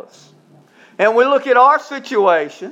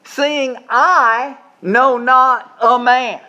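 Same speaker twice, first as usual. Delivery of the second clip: Mary's wonder; 2 semitones higher, much slower than usual. Retold or imitated. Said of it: "she said".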